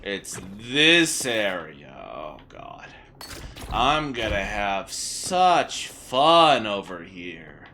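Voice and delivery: slow, dry sarcastic drawl. Real, not acted. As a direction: say it with heavy sarcasm. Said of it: "Sarcasm intended".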